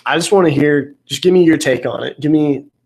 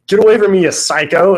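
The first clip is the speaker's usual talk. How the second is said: retold yell; 6 semitones higher, 4 dB louder than usual. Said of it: "He's like".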